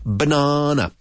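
BANANA with a popped initial B; explosive B. Shown as a demonstration. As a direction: burst the B at the start of Banana. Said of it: "The big explosive B".

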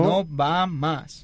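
imitando al crupier, muy lento y solemne; casino croupier call. Retold or imitated. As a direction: como un crupier cerrando apuestas, despacio. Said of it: "Como dicen en el casino". (crupier de casino anunciando, muy lento)

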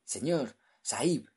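high, gasping with fear; panicked cry to the master; terrified. Acted.

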